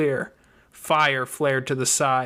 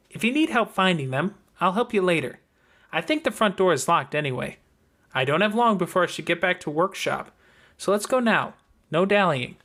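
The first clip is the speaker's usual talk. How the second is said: lightly voiced, a little higher, firm and businesslike; a hint of a no-nonsense older girl; brisk Nicolette; 5 semitones higher than usual. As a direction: hurry her along like a teacher with no time.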